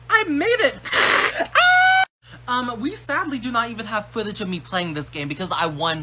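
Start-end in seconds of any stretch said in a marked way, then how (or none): 1.6-2.0 very high, loud scream of victory; triumphant scream. Acted. The girl screams in triumph after she makes it through the game. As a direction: let out a winning shriek.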